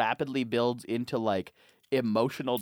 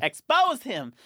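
high chant, a bit louder; higher mock battle cry; mock call-out; 11 semitones higher, 5 dB louder, slower than usual. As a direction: echo the rallying cry, louder. Joining the chant.

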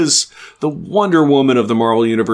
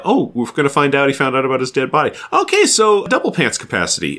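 retold mock panic; 4 semitones higher than usual. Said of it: "Should I be as scared".

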